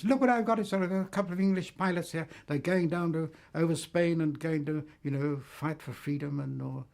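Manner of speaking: boastful show-off. Retold or imitated. Gendarme bragging to his police chums, excited high crowing. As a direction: show off the prize like a proud hunter, high and loud. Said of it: "showed all his chums".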